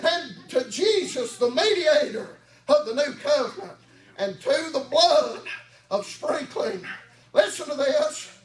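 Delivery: chanted whooping sermon, a sharp huh after each line; preaching at full force. Acted. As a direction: drive each phrase up and bark a huh at the end. Sermon builds back to whooping.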